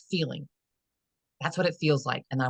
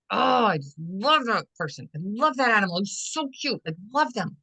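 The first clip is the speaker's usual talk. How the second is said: gushing over a pet; 5 semitones higher than usual. Retold or imitated. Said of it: "You had an action".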